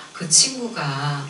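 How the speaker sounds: ordinary delivery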